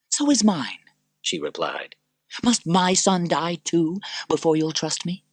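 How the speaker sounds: high, slow pleading mother; desperate Lucilla. Acted. Lucilla pleading for her son, high and desperate.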